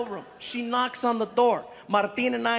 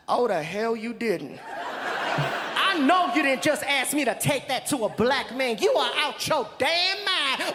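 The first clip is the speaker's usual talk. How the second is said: indignant outburst. Retold or imitated. Woman refuses the prank request.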